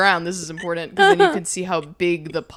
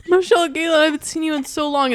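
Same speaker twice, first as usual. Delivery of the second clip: dad voice; 7 semitones higher, faster than usual. Retold or imitated. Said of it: "So he goes".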